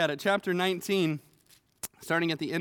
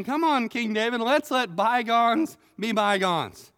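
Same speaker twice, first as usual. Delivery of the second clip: higher, louder hammed-up smooth-talking; wheedling plea; 4 semitones higher, 3 dB louder than usual. Shimei sweet-talks King David to escape punishment, wheedling. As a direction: sell it like a slippery salesman. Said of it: "he's saying".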